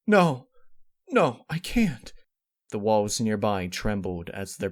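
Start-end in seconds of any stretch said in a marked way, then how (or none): 0.1-2.1 high, loud, slow protest; anguished cry. Acted. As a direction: cry out refusing. Desperate refusal.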